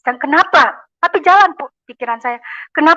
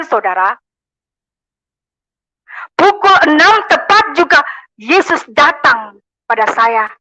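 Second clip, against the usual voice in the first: ordinary talk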